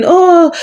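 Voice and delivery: put-on high "oh" of someone screaming; imitated scream. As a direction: imitate a relative's scream without full force. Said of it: "one of them who was screaming".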